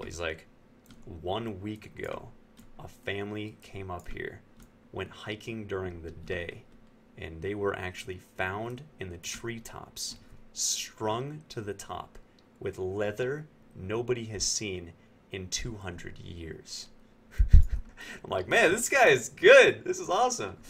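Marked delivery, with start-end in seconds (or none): 1.2-16.9 slow, hushed campfire-tale delivery; slow spooky storytelling. Retold or imitated. Waiter tells the tourists a creepy legend, slow and hushed. 18.5-20.6 higher and louder, bursting with delight; thrilled. Real, not acted. Narrator cracks up at the waiter's improvised story, excited.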